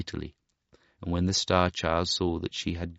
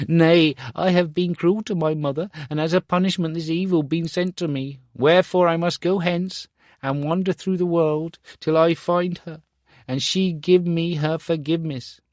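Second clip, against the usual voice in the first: much higher, louder resolve; remorseful boy; 10 semitones higher, 5 dB louder than usual. Acted. Star Child tells the woodcutter's daughter he must go, resolute. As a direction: vow to find her.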